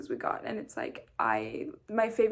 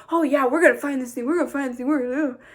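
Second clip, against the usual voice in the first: loud, pumped-up imitation; mock rallying cry; excited pep talk; 3 semitones higher, 6 dB louder, faster than usual. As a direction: hype it up like a coach. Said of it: "he was like".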